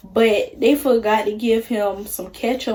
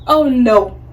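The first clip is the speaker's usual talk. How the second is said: loud dismayed oh no; realising who took the money, louder; alarmed oh no; 5 dB louder, slower than usual. Retold or imitated. Worker finds the coworker was on her register, loud dismay. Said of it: "I was like".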